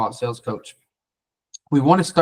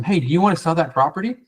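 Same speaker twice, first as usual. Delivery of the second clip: eager pitch, a bit higher; salesy; 5 semitones higher than usual. Shown as a demonstration. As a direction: push the sale like every other caller. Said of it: "It sounds salesy".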